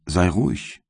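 a light voicing of the wretched creature; bitter creature. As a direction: plead and accuse at once, in the creature's role.

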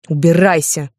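mild mock outburst, falling at the end; crying out. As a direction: drive him out with one word. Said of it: "выкрикнула я".

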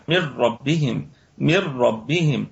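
من ربهم as مِرَّبِّهِم, full idgham; tajweed recitation. Shown as a demonstration. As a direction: recite من ربهم with the nun merged into the ra, no nasal hum. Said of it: "إدغاما كاملا بغير غنة". (تلاوة من ربهم بإدغام كامل بغير غنة)

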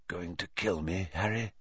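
soft, low, hushed question; whispered. A narrator's reading. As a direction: barely breathe the words. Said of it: "he whispered".

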